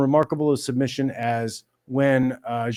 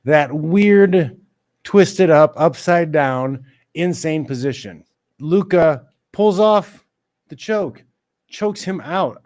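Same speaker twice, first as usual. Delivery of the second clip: excited; 3 semitones higher, 6 dB louder, slower than usual. Real, not acted. Excited fight recap.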